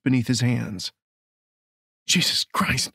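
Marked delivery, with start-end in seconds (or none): 2.1-2.9 whispered shocked oath; breathless gasp. A narrator's reading. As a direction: gasp it in horror. Watching her transform.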